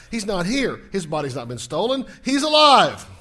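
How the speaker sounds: emphatic preacher's climax; rousing preaching. Acted. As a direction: build to a triumphant announcement. Preaches the angel's announcement.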